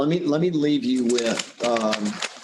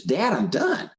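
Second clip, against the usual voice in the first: higher-pitched imitation of a proud kid; little boy announcing; 8 semitones higher than usual. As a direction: play a boy eagerly reporting to Dad. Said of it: "boy pulls the paper down. He goes".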